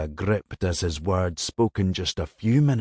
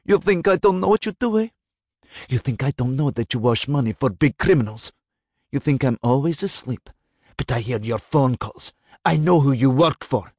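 rising furious accusation, higher and louder; hissed in rage; 5 semitones higher, 3 dB louder than usual. A narrator's reading. Mistress confronting her lover about his criminal money, raging. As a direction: spit every accusation at him. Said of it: "she'd hissed".

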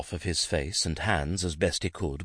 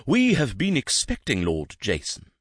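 polite courtier; 7 semitones higher, 4 dB louder than usual. A narrator's reading. Courtly young man.

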